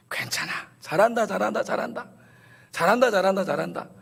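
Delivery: high-pitched encouraging chant; root for a struggling friend; cheering on. Acted.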